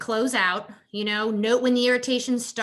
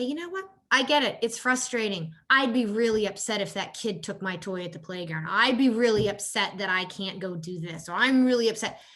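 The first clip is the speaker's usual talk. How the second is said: a touch of sing-song soothing parent; empathetic parent. Shown as a demonstration. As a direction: model calm empathy for the child. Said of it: "Step back and say".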